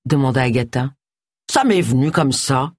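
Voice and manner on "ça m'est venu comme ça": understated sombre reply; a touch of gloom; gloomy. Acted. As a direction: admit it glumly. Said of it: "dit sombrement Charles".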